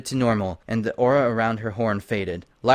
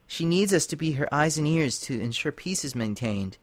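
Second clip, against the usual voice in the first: gentle plea; 4 semitones higher than usual. Acted. Lyra gently explaining.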